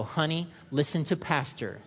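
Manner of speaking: slow, solemn mock scripture voice; mock pious nudge. Congregant teasing spouse, quoting the pastor. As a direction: tease the spouse in churchy tone. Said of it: "tempted right now to go".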